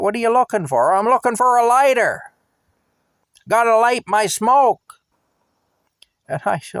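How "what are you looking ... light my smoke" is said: high, loud shouted exchange; shouting. Retold or imitated. Driver and drunk friend shouting across the driveway, high and loud. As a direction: yell it, pitched way up.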